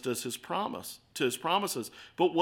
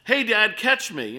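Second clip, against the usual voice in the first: a mock yell from far above, louder and higher on "Hey, Dad"; retold yell; 5 semitones higher, 4 dB louder, slower than usual. Son yelling down to dad from the cliff, mock shout. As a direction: call down to dad before jumping, raised. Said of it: "heard a voice from far above him yell".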